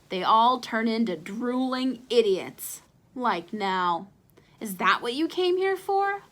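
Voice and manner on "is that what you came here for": hollered. Acted. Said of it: "hollered Ace".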